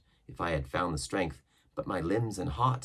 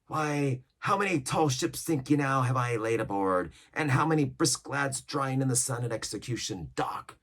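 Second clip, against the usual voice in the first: higher, boastful pirate cry; pirate cook exclaiming; 5 semitones higher than usual. Acted. Cook boasting to mutineers, raised pirate voice. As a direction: brag about old hangings. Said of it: "cried Silver".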